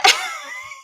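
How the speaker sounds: real high-pitched laugh. Real, not acted. Streamer laughing though not finding it funny, helpless laugh. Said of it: "And I'm laughing".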